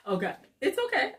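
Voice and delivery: real laughter fading into reassurance; laughing. Real, not acted. Recovering from a laughing fit.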